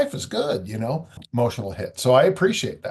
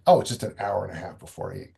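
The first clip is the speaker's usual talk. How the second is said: quick, lower, brushing it off; answering your own worry with a shrug; dismissive self-reassurance; 4 semitones lower, faster than usual. Shown as a demonstration. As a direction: wave it away fast, no big deal. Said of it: "Am I hungry?".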